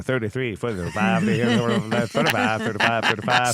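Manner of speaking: mock auctioneer chant. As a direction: rattle off bids like an auctioneer. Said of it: "I feel like an auctioneer".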